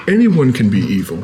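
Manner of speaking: deep, low, wide-ranging goddess-like divine voice.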